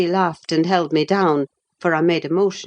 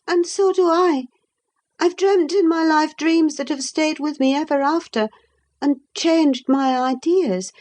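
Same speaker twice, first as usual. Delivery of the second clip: put-on lightly raised young woman's voice; young Catherine; 8 semitones higher than usual. A narrator's reading. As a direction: speak up as the restless young lady.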